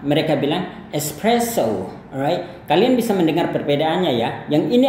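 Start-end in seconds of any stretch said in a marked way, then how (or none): 0.9-1.9 espresso ending in a plain o, American English. Shown as a demonstration. Teacher demonstrates American espresso for comparison. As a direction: model American espresso with a pure o. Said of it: "untuk Amerika".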